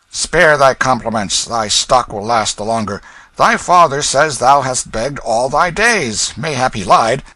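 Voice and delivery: icy royal disdain; proud young king. Acted. King answers coolly.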